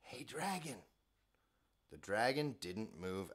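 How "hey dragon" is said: softly voiced call; soft whisper. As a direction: gently test if he sleeps. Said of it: "whispered very softly".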